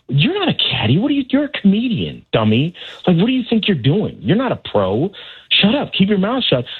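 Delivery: taunting devil voice. Retold or imitated. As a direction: needle yourself like a shoulder devil. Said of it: "that little devil on my shoulder who's, like, whispering in my ear".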